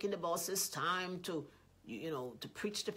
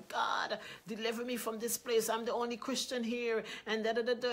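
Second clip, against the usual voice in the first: mock pleading cry to God, higher and louder; 4 semitones higher, 4 dB louder than usual. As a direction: plead with God like a complainer, lightly hammed-up. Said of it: "go to God and cry".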